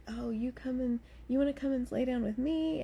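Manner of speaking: lightly voiced child inviting you over; little girl's invite. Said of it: "one of the girls is like".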